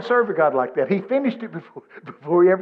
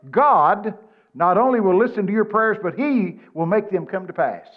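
emphatic read-out; 3 semitones higher, 4 dB louder than usual. Retold or imitated. Preacher reading the note aloud to the congregation, emphatic. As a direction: proclaim it from a slip of paper.

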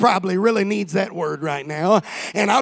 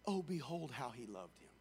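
mock sentimental quote; 6 semitones lower, 24 dB quieter than usual. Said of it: "the Jews say".

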